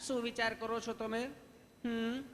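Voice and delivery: easy, affectionate nurse questioning; sweet nurse. Acted. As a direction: ask lovingly, like a nurse. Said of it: "અમારું કામ છે પ્રેમથી પૂછવાનું".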